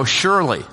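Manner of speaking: "Surely" said alone, then a long pause; pause after Surely. Shown as a demonstration. Pastor avoiding Aunt Shirley's name, pausing after "Surely". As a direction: say "Surely" and stop before going on. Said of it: "I have to pause when I say this".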